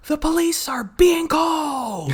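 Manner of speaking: high, slow heroic proclamation; triumphant hero voice. Retold or imitated. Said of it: "triumphant hero voice ever".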